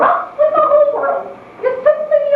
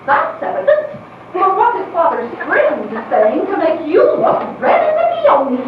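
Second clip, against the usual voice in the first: sarcastic; 3 semitones higher than usual. Acted. Aunt scolding niece's blush.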